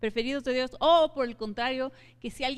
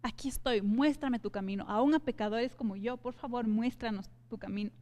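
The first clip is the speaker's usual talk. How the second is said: confident plea. Acted. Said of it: "decirle confiadamente".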